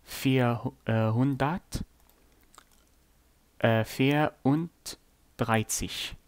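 ein tausend said in German; German number. Shown as a demonstration. Teacher showing how Germans count. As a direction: read ein tausend, vier, hundert, vierunddreißig with German sounds. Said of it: "In German, you would say".

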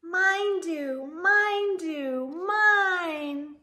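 high, loud sing-song chant of mine; high singsong little-one reply; eager little voices. Acted. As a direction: chant it like an excited toddler claiming. Eager answer to story question.

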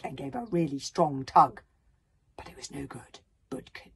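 animated reading, urgent then hushed at failure; dramatic story narration. Acted. Author reads sprites hauling on Bodkin, dramatic narration. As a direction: drive the struggle along.

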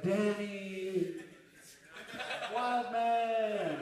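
high, loud call as he's dragged away; high farewell cry. Retold or imitated. Wild Man calling to Danny while tossed out, high and loud. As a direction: shout your name back from the door.

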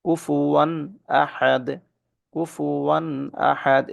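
কুফুয়ান আহাদ with a clear tanwin nun before the hamza; tajweed demo of izhar; clear izhar recitation. Shown as a demonstration. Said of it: "এখানে তানবিনের পরে হামজা আসছে".

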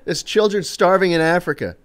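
mock Australian guilt-trip; Australian accent. Friend urging him to eat the hash brown, imitated Australian accent. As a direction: plead lightly as an imitated Australian. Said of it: "in his Australian accent".

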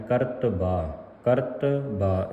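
ਕਰਤਬਾ as ਕਰਤ-ਬਾ, falling; correct pronunciation. Shown as a demonstration. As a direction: set ਬਾ just apart in ਕਰਤਬਾ. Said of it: "ਇਸ ਤਰ੍ਹਾਂ ਪੜ੍ਹਨਾ ਹੈ".

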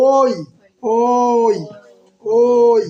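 ওই drawn out so "o" glides into "i"; diphthong demonstration. Shown as a demonstration. Teacher showing two vowels inside one sound, ওই held as o-i. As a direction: stretch ওই to expose both vowels, o-i. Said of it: "এই ওই ধ্বনিটাকে ভাঙলে".

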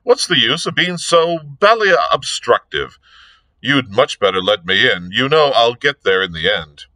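lightly voiced gentleman sleuth, protesting; a touch of exasperated aristocratic banter; exasperated Lord Peter. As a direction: reason with a stubborn inspector, mildly exasperated.

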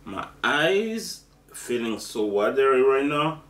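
talking through burning spicy mouthful; mouth full of hot food. Real, not acted. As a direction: speak with a mouth on fire. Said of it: "my mouth is on fire".

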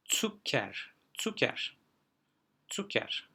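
"Zucker" opening on a sharp "ts". Shown as a demonstration. Teacher repeating an example of initial Z, careful pronunciation. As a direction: repeat "Zucker" as "tsuker", pausing between takes. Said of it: "olduğunda başta S".

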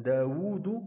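داوود with a long "wuu"; madd sounded. Shown as a demonstration. Teacher pointing out the madd, داوود with its long uu held. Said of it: "هناك مد".

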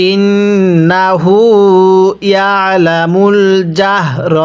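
slow drawn-out tajweed chant; Quran recitation. Shown as a demonstration. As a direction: stretch every vowel like a teacher reciting. Recites the verse.

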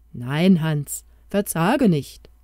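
a touch of reassurance; comforting. Acted. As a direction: soothe him, take your time on verzage nicht. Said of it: "tröstete die Maus".

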